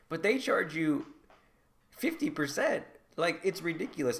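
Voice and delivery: indignant disbelief at the rip-off; incredulous outrage. Real, not acted. Outraged at a fifty percent fee.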